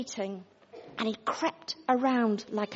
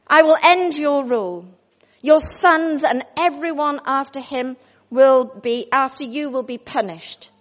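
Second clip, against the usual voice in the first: stern prophet; 4 dB louder than usual. Acted. Elijah pronouncing God's judgement.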